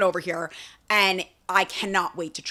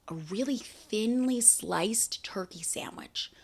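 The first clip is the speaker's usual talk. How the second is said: slow breathy whisper, savouring each word; hushed, slow and longing; dreamy whisper; 8 dB quieter, slower than usual. Real, not acted. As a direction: whisper it like a craving. Dreamy description of a sandwich.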